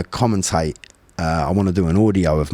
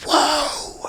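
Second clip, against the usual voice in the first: sudden high whoa yell; a startling high-pitched whoa; shout. Retold or imitated. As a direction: yell it out to hype yourself up. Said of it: "at the top of his voice".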